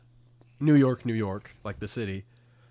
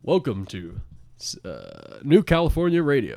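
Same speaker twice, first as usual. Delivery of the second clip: hammed-up radio host welcome; mock radio announcer; 6 dB louder than usual. Welcoming listeners to New California Radio, mock announcer voice.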